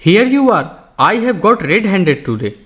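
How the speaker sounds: sudden high loud bark, then slow; thundering shout. A narrator's reading. Old Englishman catching a flower thief in his garden, thundering. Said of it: "किसी ने पीछे से गरज कर कहा".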